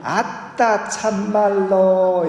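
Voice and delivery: coy, drawn-out Jeolla dialect, pitched high. Acted. Shy lover too bashful to say it, Jeolla dialect. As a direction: squirm bashfully in Jeolla dialect, stretching the words. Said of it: "전라도 버전은 이겁니다".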